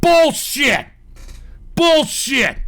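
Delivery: loud scornful bullshit; angry outburst. Real, not acted. Scolding protesters, a loud angry outburst. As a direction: spit it out in disgust.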